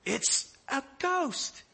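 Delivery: high, slow, drawn-out ghost cry; sermon speaker pretending he would scream too; slow spooked wail. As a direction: let it stretch out eerily. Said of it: "I would too".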